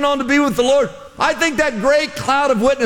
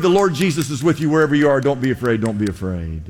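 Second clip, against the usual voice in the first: Daniel's reassurance; 9 semitones lower, faster than usual. Acted. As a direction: reassure them, letting the voice sink away. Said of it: "Daniel is cheering you on right now, saying".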